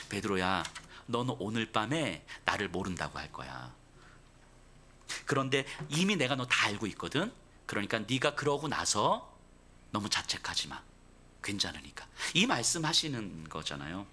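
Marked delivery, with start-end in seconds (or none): 0.1-12.1 tender reassurance. Retold or imitated. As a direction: comfort him before he falls. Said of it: "넉넉하게 웃으시면서".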